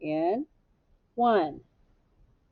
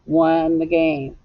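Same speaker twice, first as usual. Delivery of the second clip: slow example; 3 semitones lower, slower than usual. Shown as a demonstration. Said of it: "or would it be won the game".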